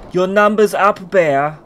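loud taunt at the bear; mock enemy threat. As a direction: announce the bear's doom. Acted enemy threat in war story.

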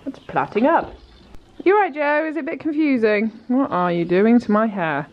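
lightly voiced puzzled horse; voicing the horse. Owner voicing her mare's confusion, lightly puzzled. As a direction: speak for the horse, mildly puzzled. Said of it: "She says".

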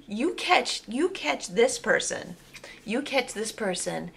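excited emphasis. Real, not acted.

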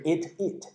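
"eat it" joined as ea-tit; linked words. Shown as a demonstration. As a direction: slide the t of "eat" into "it". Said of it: "他可能会读的是eat it".

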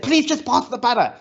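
a mild mock yell that begs the robot; mock exasperated plea. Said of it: "And I kept on screaming at it".

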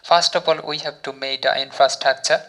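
very slow, word by word English; slow example sentence. Shown as a demonstration. Teacher reads example sentence to learners, very slowly. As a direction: spell out each word of the model sentence. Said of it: "যদি আপনি sentence তৈরি করেন".

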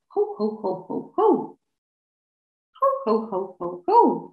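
jolly Santa belly laugh; Santa Claus ho ho. Shown as a demonstration. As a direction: let the ho ho come from the tummy like Santa. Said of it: "a little bit like Santa Claus".

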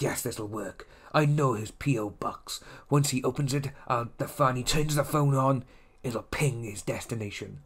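softly plotting mock private eye; quietly scheme it out, as if to yourself; lightly voiced, hushed cartoon schemer; shady detective. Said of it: "looking like a shady, uh, detective".

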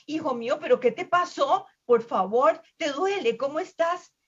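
high, pleading, worried questions; anxious mother. A narrator's reading. Manatee mother hugging her hurt son, anxiously questioning. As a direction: fuss anxiously over your child, pitch well up.

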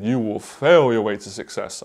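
a hint of Les Brown's big stage voice; imitating Les Brown. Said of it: "I can't do his voice".

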